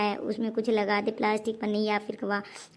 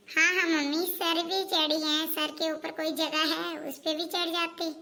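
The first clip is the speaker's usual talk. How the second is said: sarcastic taunt; 4 semitones higher, 3 dB quieter than usual. Acted. बहू सास को ताना मारती है. (सास को चिढ़ाते हुए धीमा, ऊँचा, व्यंग्य भरा जवाब)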